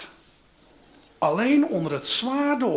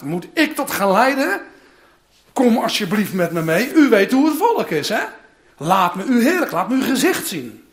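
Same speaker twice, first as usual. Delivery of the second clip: louder pleading, half laughing at the end; pleading Moses; 5 dB louder than usual. Acted. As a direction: beg God to come along. Voicing Moses pleading with God.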